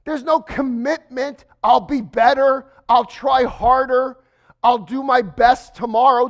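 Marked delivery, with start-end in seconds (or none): 1.6-6.3 louder, earnest mock vows; pleading promises. Preacher voicing a condemned thief's promises, mock pleading. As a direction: plead like a sinner bargaining with God. Thief's imagined pleas to God.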